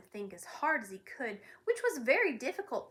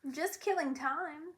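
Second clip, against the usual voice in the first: apologetic; 6 semitones higher than usual. Acted. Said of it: "replied Milo apologetically".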